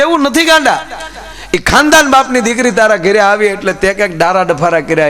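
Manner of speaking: teasing high outburst. Retold or imitated. Teasing the friend about his wife.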